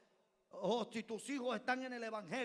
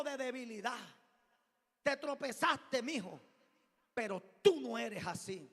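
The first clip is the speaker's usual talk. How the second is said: firm reassurance; 3 semitones higher, 5 dB louder than usual. Retold or imitated. Pastor reassuring the young man.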